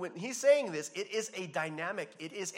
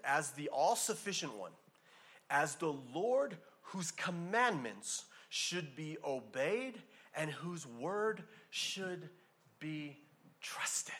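reading a quote; slower than usual. Acted. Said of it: "he writes this".

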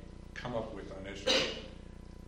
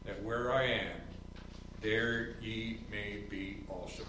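scripture reading; 2 semitones higher than usual. Acted. Pastor reading John fourteen to the congregation, solemn and measured.

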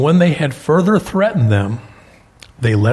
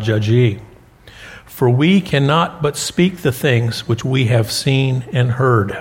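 measured pulpit reading of the verse; scripture reading. Acted. Pastor reading Acts to the congregation, measured and deliberate.

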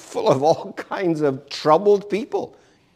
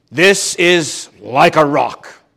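truck ad slogan; 3 dB louder, slower than usual. Retold or imitated. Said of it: "and they always would say".

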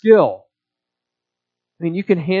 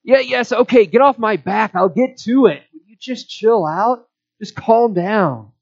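higher-pitched, mock exasperated retort; irritated brush-off; 4 semitones higher than usual. Preacher acting out a tone that stirs up anger, irritated. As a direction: act out a testy "leave me alone" tone. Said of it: "the tone in which it is spoken".

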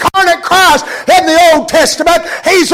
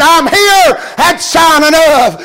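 impatient God; slower than usual. Acted. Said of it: "I'd have said".

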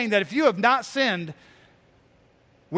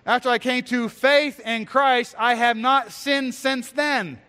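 false teacher's boast, slowing toward the end; air-quoted claim; 3 semitones higher, slower than usual. Acted. Preacher voicing false teachers to the congregation, air-quoted claim. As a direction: quote their claim with "faith" held up as so-called. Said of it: "notice the air quotes".

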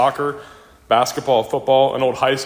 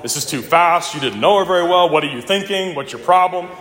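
higher and louder, retelling an upset mother; mom going off; 5 semitones higher, 4 dB louder than usual. Retold or imitated. Mom scolding son over his marriage plans, agitated retelling. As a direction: fire off the questions like an alarmed parent. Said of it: "Just went off".

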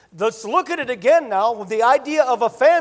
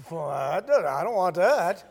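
put-on child's voice; 3 semitones lower than usual. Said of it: "Your little child's thinking".

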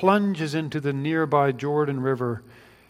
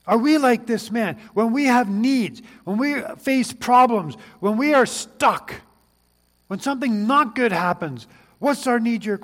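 higher, louder questions building; rising urgent appeal; 7 semitones higher, 4 dB louder than usual. Real, not acted. Preacher challenging congregation, urgent and raised.

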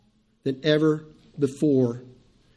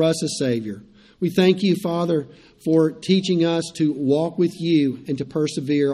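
prayer. Acted. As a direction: pray it reverently over the people. Pastor leads closing prayer.

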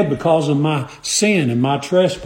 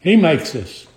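deliberate weight on "makes"; stress on "makes". Real, not acted. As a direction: repeat it firmly, leaning on "makes". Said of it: "I emphasize that word makes".

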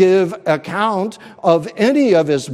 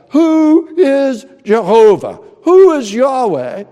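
defiant Pharaoh; 4 dB louder than usual. Acted. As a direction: bellow the tyrant's refusal to God. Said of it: "Pharaoh said".

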